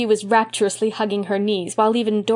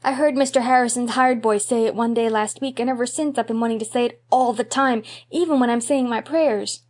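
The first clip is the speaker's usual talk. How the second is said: put-on earnest little boy; 3 semitones higher than usual. Davy explains earnestly.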